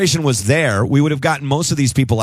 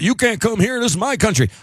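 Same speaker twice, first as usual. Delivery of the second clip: mock nativist; 9 semitones higher than usual. Mocking anti-immigrant stance.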